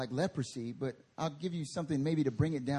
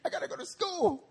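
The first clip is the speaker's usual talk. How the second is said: laughing panic; 4 semitones higher, 3 dB louder than usual. Retold or imitated. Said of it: "I'm like".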